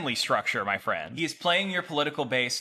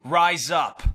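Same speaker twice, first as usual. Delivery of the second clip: fiery revolutionary speech. Acted. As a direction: rouse the crowd to rise. Rallying call to flesh supremacists.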